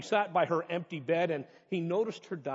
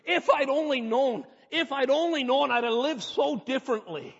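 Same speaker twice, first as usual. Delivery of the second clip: crying out in regret; 8 semitones higher, 7 dB louder than usual. Pretend. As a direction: cry it out as if too late. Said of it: "cry out one day too and say".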